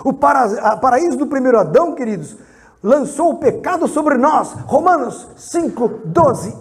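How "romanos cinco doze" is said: announced reference. Real, not acted. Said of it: "abra lá".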